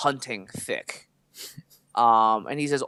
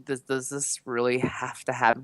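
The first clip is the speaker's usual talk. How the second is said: quiet; 6 dB quieter than usual. Retold or imitated. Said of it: "I was just like".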